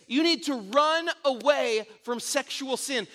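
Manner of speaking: slow, deliberate pleading quote; emphatic quote. Retold or imitated. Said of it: "he says this".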